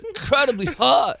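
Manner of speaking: lightly held Chris Rock voice winding down; a fading hint of the comedian bit; Chris Rock impression. Comic eases out of his Chris Rock impression. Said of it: "I would swear that was Chris Rock".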